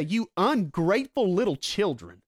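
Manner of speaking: mock scolding. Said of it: "He doesn't say".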